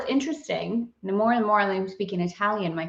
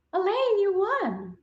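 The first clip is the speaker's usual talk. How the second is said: excited announcement; 11 semitones higher, slower than usual. Real, not acted. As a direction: call out the winner with delight. Announcing winner, drawn out.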